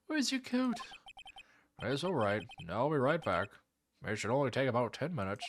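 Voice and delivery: put-on generic old man voice; lightly voiced old man; old guy voice. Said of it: "the generic old guy voice I have".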